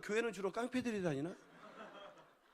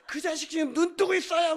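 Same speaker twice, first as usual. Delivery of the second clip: higher, louder accusing call; mock denunciation; 7 semitones higher, 8 dB louder than usual. Evangelist exposes boy peeking during prayer, loud mock accusation. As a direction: call out the culprit to the crowd.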